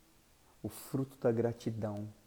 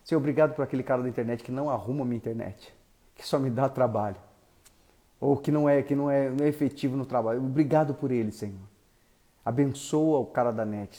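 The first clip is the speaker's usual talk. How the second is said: louder, fast, grudging thanks through clenched patience; mock grudging prayer; 2 semitones higher, 6 dB louder than usual. Shown as a demonstration. Pastor imitating a grudging prayer, loud and sarcastic. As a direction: pray for the useless repairman with sarcastic exasperation. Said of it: "no culto que eu tava pregando".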